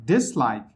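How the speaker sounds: DIS in dislike stressed over like; primary stress on DIS, weaker on like. Shown as a demonstration. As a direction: lean on the first syllable, DIS-like.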